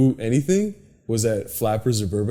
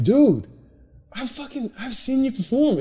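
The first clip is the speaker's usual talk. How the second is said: higher, gushing fanboy voice; starstruck fan; 10 semitones higher than usual. Retold or imitated. Meeting Brody at the show, higher starstruck gushing.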